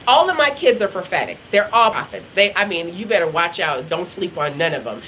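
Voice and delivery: normal talking voice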